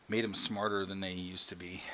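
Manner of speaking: conspiratorial whisper; whispered aside. Real, not acted. Host whispering about smarter Furbies. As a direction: hush it like a secret.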